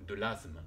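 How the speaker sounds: « asthme » dit « azme », s voisé en z; asthme avec z. Shown as a demonstration. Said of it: "on va dire que c'est le son Z". (« asthme » prononcé « azme »)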